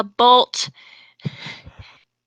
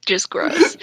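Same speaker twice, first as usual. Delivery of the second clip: whisper; 5 semitones higher than usual. Real, not acted. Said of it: "This is gonna make".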